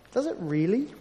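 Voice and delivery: "Does it really?" asked once, mildly doubtful; first mild query from a sceptical listener; doubtful question. Pretend. Listener doubting the preacher, mild questioning. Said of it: "you might be thinking to yourself".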